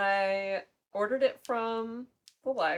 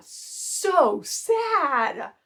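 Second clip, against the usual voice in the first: slow, higher, louder mock wail with laughter; hammed-up tearful; 8 semitones higher, 10 dB louder, much slower than usual. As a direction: ham up the tears. Retells text about crying.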